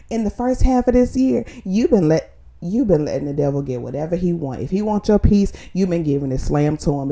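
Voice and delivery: fired-up preaching. Acted. Preaching to herself, building.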